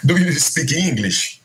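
slow careful English. Retold or imitated. Asking foreigners their language.

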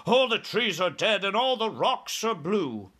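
high-pitched, appalled exclamation; dismayed cry. A narrator's reading. Air Force chief looking at strange land, dismayed cry. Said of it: "he cried".

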